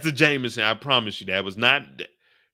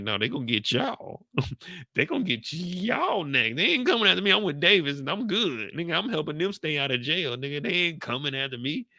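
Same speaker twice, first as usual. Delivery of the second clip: higher, smug laughing voice; gloat, higher and amused; imitating Sachs; 4 semitones higher than usual. Sachs gloating to himself, smug and higher. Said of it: "Sachs was thinking".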